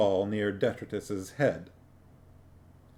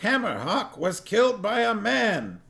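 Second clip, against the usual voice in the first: much higher, alarmed little dwarf voice; a high voice for the dwarf Cuddy, alarmed; 11 semitones higher than usual. A narrator's reading. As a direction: squeak it out like a startled dwarf.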